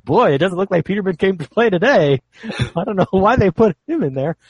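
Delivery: high, loud mock game announcer; automated announcer voice. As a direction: imitate a video game's canned commentator. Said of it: "the automated announcer voice is like".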